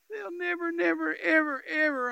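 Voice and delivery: high, loud, insistent repetition; forceful preacher's cry; emphatic. Real, not acted. Preacher driving home his point.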